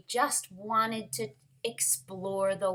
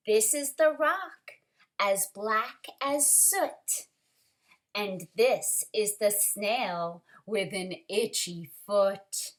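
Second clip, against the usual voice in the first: put-on lively read-aloud for children; story reading; 3 dB louder than usual. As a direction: read it like a picture book to the class. Teacher reads picture book aloud.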